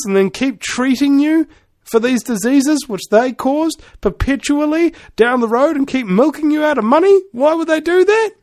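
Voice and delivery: long question climbing steadily in pitch; building rant. Acted. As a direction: pile it up, rising to a high incredulous peak. Comic rant builds to punchline.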